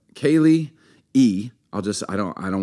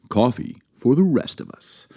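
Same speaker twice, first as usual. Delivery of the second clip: ad slogan; 2 semitones higher than usual. Acted. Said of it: "Dunkin' Donuts".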